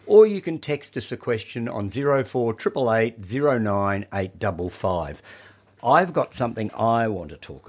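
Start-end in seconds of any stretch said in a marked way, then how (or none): 1.9-5.2 reading digits one by one. Real, not acted. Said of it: "I'll read out the numbers".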